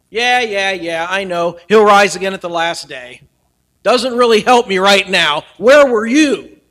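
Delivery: frustrated Martha. Retold or imitated. Martha's frustrated reply voiced.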